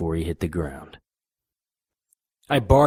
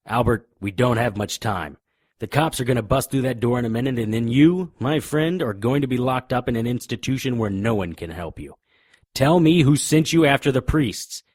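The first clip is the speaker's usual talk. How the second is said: raised voice, quick and insistent; urgent pressing; 5 semitones higher, 4 dB louder than usual. Acted. Detective warning Albert the cops are coming, urgent and raised. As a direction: hurry him before the cops burst in.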